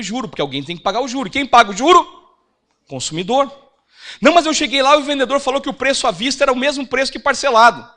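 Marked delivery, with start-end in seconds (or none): 4.2-7.8 high, loud protest in one long run; acted indignant objection; objecting customer. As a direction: insist loudly, pitched up, as a duped customer.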